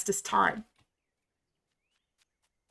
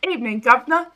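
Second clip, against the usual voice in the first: a light mock Cockney greeting, slightly louder; 4 dB louder, much faster than usual. Streamer hams up her British accent for chat, mock Cockney. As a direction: toss off a cheeky British Cockney hello. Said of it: "evening governor kind of thing".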